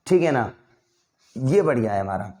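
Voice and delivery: ordinary delivery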